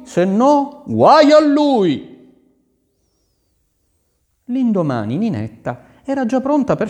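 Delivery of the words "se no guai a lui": threat. A narrator's reading. Prince threatens gardener.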